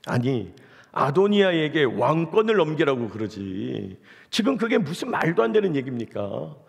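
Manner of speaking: exasperated, sarcastic protest, mildly acted; mock anger. Solomon scolding his mother over her request, mildly angry. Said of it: "막 이러면서 화를 내고 있는 거예요".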